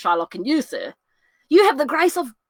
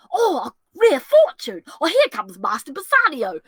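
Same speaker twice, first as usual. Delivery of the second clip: delighted; 4 semitones higher than usual. Acted. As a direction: savour the lucky moment. Lancelot sees Bassanio arriving.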